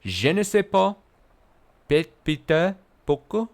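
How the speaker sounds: high, hammed-up French accent; mock French accent. Streamer repeating a chat joke in a mock French accent. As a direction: ham up the French again. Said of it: "Is that how French people speak?".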